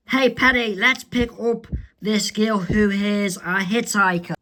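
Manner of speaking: put-on a friendly girl suggesting a ride; Zoe's voice. Zoe voiced in comic reading.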